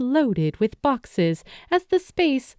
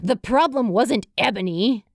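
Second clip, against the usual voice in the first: put-on grunting young spirit. A narrator's reading. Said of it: "they grunted".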